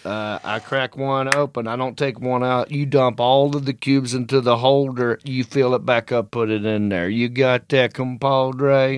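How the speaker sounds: lightly imitated Texas drawl; a hint of laid-back Texan cowboy; Texas accent. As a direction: play the Western guy giving instructions. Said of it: "this is how he talks".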